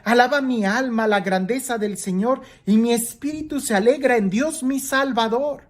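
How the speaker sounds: lectura de la Escritura en tono alto; lectura proclamada. Acted. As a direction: proclama la alabanza con voz sostenida y aguda. Lee las palabras de María. (alabanza leída en voz alta)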